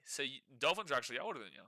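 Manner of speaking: tossed away under the breath; quick aside. Real, not acted.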